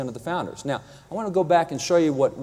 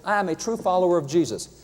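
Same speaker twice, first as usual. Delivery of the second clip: higher, earnest mock protest; imitating Jefferson; 6 semitones higher than usual. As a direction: insist it like a wounded man claiming his faith. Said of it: "Jefferson's gonna fight me on this because in his own writings he says".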